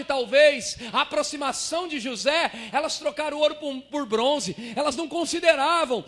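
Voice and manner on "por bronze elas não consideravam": usual speaking voice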